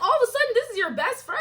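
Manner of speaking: high, loud, laughing through it; laughing disbelief. Retold or imitated. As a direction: laugh at how absurd it is.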